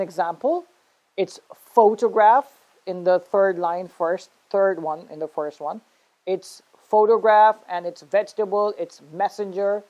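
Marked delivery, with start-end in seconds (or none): 1.5-2.5 photograph as slow FOE-tuh-graf; stress on first syllable. Shown as a demonstration. Teacher reading the practice chart, photograph with PHO stressed. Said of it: "syllable that you have to stress". 6.8-9.8 photograph, vegetable, messenger each hit on PHO, VEG, MES; stress on first syllable. Shown as a demonstration. Teacher reading chart examples, first syllable stressed in photograph, vegetable, messenger. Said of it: "syllable that you have to stress".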